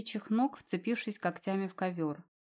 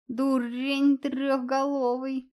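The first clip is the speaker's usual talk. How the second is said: trumpeting; 5 semitones higher, 4 dB louder, much slower than usual. A narrator's reading. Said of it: "затрубил чёрный кот".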